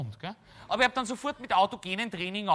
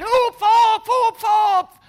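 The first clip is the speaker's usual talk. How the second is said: high, loud shouted hupf again from below; firemen shouting; 14 dB louder, much slower than usual. Retold or imitated. Firemen below yelling at him to jump, high loud shout. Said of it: "Und die schreien".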